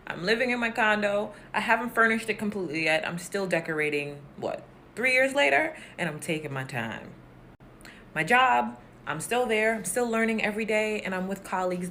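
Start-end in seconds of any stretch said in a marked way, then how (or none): 4.4-5.7 rhetorical surprise. Real, not acted.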